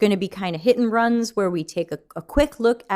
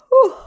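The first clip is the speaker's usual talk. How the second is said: yawn exhale; 10 dB louder than usual. Real, not acted. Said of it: "I yawn all day".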